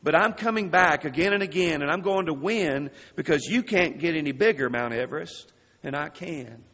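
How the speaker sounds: shouted defiance at a mountain; calm turning angry. Retold or imitated. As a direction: call out to the mountain, rising to a shout. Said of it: "he shouted to this picture of Mount Everest".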